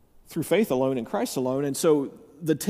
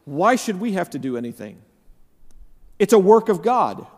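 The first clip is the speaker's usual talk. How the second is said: higher, louder protest; imagined objection; 4 semitones higher, 3 dB louder than usual. Acted. Congregant objecting to having any responsibility, raised protesting voice. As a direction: push back like a puzzled objector. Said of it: "And you say".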